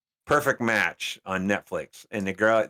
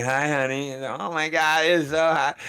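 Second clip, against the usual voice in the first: higher-pitched, lightly mocking admirer voice; fawning female admirer; 5 semitones higher, slower than usual. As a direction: imitate a smitten woman, pitched up. Acting out women fawning over him.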